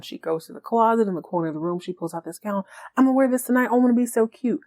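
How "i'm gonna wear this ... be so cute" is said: a touch of higher-pitched giddiness; giddy. Retold or imitated. Girlfriend showing off tonight's gown, giddy. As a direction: lightly mimic her giddy gushing. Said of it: "she's all giddy".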